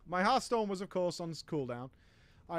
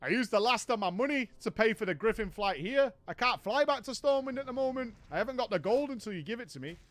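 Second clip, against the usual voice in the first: Raven pleading; 3 semitones higher than usual. Retold or imitated. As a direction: rush the excuse out. Raven explaining he's broke.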